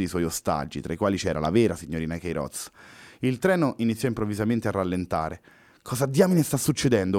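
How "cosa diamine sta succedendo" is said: higher, angry mock shout; furious shout. Luis feels the train slowing, a hammed-up furious yell. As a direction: bark the question in fury. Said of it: "urlò Luis su tutte le furie".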